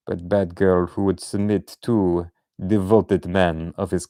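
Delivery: understated Russian femme fatale voice; mock Russian villainess. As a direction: tease the captive like a hammy Russian dominatrix. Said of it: "hail Hydra like this".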